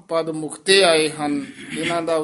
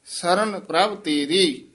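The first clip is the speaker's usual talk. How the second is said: ਸਰਨ ਪ੍ਰਭ ਤੇਰੀ slowly, ending in a full pause after ਤੇਰੀ; ਤੇਰੀ ਤੇ ਵਿਸਰਾਮ; 3 semitones higher, 3 dB louder, slower than usual. Shown as a demonstration. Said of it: "ਇੱਥੇ ਵਿਸਰਾਮ ਹੈ".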